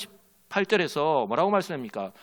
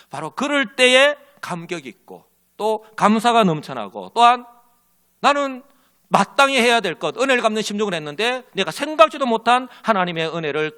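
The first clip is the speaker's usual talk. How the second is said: rising fervent preaching; 4 semitones higher, 4 dB louder than usual. Real, not acted. Preacher building to a climax.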